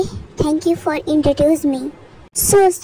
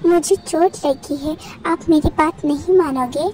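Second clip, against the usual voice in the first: put-on lightly raised, childlike student voice; pouty student. Student Jungkook questions the principal, a light childlike whine. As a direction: whine it like a spoiled kid.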